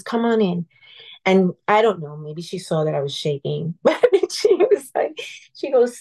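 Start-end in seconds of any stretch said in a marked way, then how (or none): 0.0-0.7 sweet nun. Retold or imitated. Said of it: "such sweet way of talking to me".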